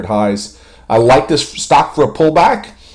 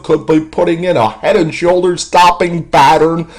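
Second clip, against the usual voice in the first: out of breath; 6 semitones higher, 3 dB louder than usual. Real, not acted. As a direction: push through the line short of breath. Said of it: "I'm running out of breath".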